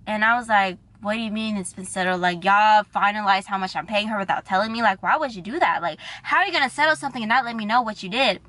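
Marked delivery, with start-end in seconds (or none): 1.0-2.2 mildly indignant demand, as in thought; acted-out inner protest. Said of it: "that's what I said in my head". 2.2-8.4 mildly outraged inner rant, speeding up; acted-out indignant questioning. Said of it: "that's what I said in my head".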